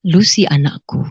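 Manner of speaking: lightly voiced solemn God; authoritative voice. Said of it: "dengan wibawa sekali".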